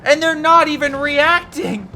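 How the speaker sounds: high, loud furious outburst; raging. Real, not acted. Caster raging at viewers about unmoving Tigers, loud and furious. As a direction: rant in real rage at the idle tanks. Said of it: "Oh, I'm raging".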